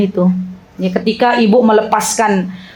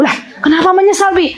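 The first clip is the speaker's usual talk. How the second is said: quick, higher, laughing reply; playful laughing comeback; 4 semitones higher, faster than usual. Retold or imitated. Wife answering husband's confession with a laughing quick retort. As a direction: toss it back teasingly with a laugh.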